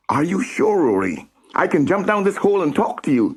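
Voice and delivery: high, fast offer; eager boy. Acted. Sam offering to jump down and keep Rory company. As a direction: offer quickly.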